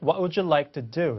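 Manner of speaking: "would you" run together as wu-joo; linking model. Shown as a demonstration. Teacher echoing the clip for learners, "would you" linked. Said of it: "이렇게 죠".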